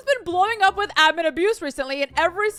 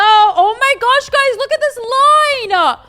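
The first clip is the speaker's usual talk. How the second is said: surprised; 8 semitones higher, 7 dB louder than usual. Real, not acted. Shocked at long queue.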